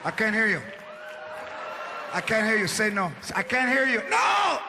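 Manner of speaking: wife taunting her sick husband; mocking taunt. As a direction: rub it in.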